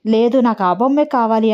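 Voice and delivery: ordinary delivery, nothing marked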